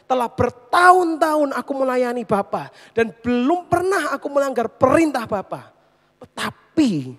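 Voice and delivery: loud, angry complaint to his father; angry protest. Retold or imitated. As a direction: throw the grievance at the father. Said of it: "Dia marah sekali". (protes marah dan keras)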